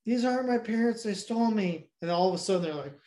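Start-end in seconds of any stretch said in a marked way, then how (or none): 0.1-1.9 lightly voiced child, pitched up; tattling kid. Retold kid telling the guard about being stolen, higher child voice. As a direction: play the kid blurting it out in a higher voice. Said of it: "But then the kid's like".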